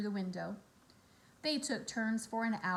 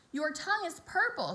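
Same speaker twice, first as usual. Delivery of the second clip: mild mock scream; 6 semitones higher than usual. A narrator's reading. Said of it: "screamed Fern".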